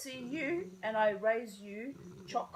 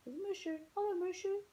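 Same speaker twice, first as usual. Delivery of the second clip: cat greeting; 10 semitones higher than usual. Real, not acted.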